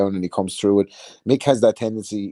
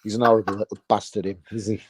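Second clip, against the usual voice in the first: Paul Sykes impression. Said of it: "the Paul Sykes documentary".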